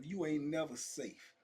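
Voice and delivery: slow, never given weight; stress on never. Shown as a demonstration. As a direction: hit the word never, slowly. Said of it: "emphasis on the word never".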